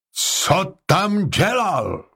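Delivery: high, slow indignant demand; zahřmění. A narrator's reading. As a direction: demand it, stretching each word. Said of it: "zahřměla paní Y". (rozhořčeně a protáhle)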